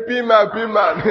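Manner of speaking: laughing mock pidgin. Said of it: "What is the Greek way of "my God, my God".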